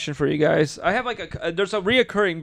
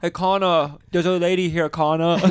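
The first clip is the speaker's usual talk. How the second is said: put-on a light joking Valley Center accent, a bit louder; 3 semitones higher, 4 dB louder than usual. Warming up into the accent by calling to Connor, mock Valley Center accent. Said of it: "That's how I get into the accent".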